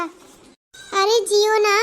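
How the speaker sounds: mocking. Daughter-in-law mocks mother-in-law.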